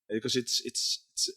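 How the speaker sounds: worn-out voice, cracking to a breath; hoarse voice. Real, not acted. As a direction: voice nearly gone after talking all day. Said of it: "I'm almost losing my voice already".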